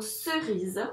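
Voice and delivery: cerise, dit lentement en appuyant sur le z. Shown as a demonstration. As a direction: articule cerise doucement pour l'élève. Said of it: "Parce qu'elle est entourée de I et de E". (maîtresse articule cerise pour la classe)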